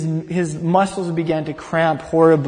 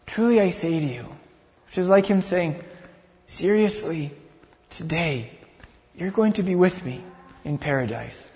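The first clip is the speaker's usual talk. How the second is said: softer, hushed and reassuring; gentle promise; 5 dB quieter than usual. Retold or imitated. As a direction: tell him softly, as comfort to a dying man. Jesus answers the dying criminal.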